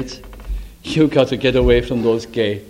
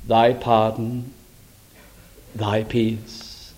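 penitent prayer; 2 semitones lower than usual. Retold or imitated. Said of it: "Not only a remorse, but".

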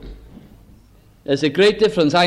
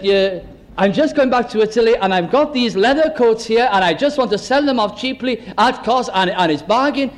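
imitated European-accented sales patter; lightly put-on European accent, a little raised; 3 semitones higher than usual. Roadside seller pitches leather coats to motorist, European accent. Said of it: "an accent, one of the European accents".

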